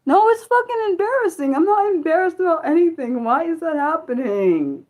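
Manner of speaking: exasperated, fuming outburst; real angry shout. Real, not acted. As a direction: yell it out in frustration. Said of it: "It's really aggravating me".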